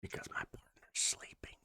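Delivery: soft whisper so nobody wakes; morning voice. Real, not acted. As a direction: whisper to keep from waking her. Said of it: "I have my morning voice on".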